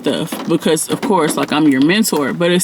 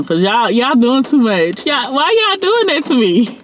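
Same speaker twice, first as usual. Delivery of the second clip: tearing up; 5 semitones higher than usual. Real, not acted. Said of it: "let me not get emotional".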